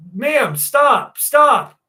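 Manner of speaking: high, loud panicked stop, stop; panicked pleading. Retold or imitated. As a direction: beg her to stop as panic climbs. Creature attacking him, pleading.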